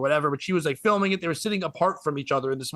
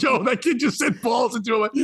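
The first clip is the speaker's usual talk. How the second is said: excited shout; 5 semitones higher than usual. Retold or imitated. Shouting in disbelief.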